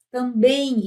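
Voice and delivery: TAMBÉM pronounced tam-beim, ending in a nasal I; I glide. Shown as a demonstration. Teacher showing the hidden I, nasal glide ending. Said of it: "aparece um I".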